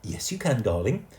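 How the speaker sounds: high, coaxing call; calling mother. A narrator's reading. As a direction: coax the boy down nervously. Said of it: "called Missus Smythe Fortescue".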